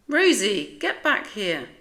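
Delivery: loud call after a running dog. Acted. Owner calls running dog back.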